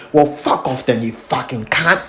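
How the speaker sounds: low-key Cockney officer imitation, drawn out at the end; mock Cockney. Retelling the officer's parting insult, mock Cockney accent. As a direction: imitate a Cockney copper, dragging the last words. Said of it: "with his little fucking Cockney accent".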